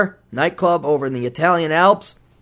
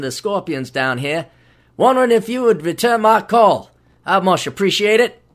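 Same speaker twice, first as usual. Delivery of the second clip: mock Australian voicemail. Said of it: "He's Australian, by the way".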